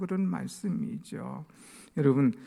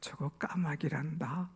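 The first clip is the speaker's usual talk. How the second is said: kind; 8 dB quieter than usual. Retold or imitated. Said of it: "나는 아주 친절하게".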